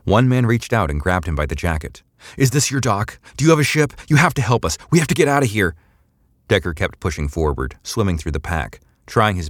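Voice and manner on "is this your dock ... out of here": high, frantic plea; desperate pleading. A narrator's reading. Man grabs Decker begging for a ship, desperate pleading. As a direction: plead urgently, pitched well up. Desperate crowd begs him for help.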